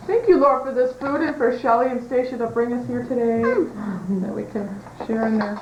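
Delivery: slow, hushed table grace; prayer. Real, not acted. Saying grace before the meal.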